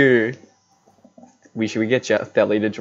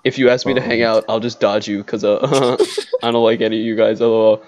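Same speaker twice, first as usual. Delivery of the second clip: lightly voiced dull gamer; a hint of a bored streamer; Reggie Rock impression; faster than usual. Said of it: "I'll do my Reggie Rock impression".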